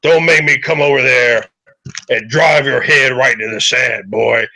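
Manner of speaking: gravelly voice. Acted. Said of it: "this man's voice is the graveliness".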